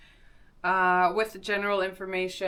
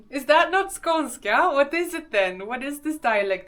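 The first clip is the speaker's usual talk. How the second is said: surprised; 6 semitones higher, 7 dB louder than usual. Real, not acted. Surprised she's told it's wrong.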